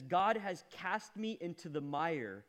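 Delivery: loud, high, desperate lament; preacher reading Job crying to God; anguished outcry. Acted. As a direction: cry out to God in torment. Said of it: "He says".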